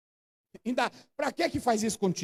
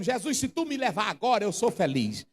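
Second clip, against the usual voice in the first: sincere prayer. Shown as a demonstration. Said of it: "Vá pra ele dizendo".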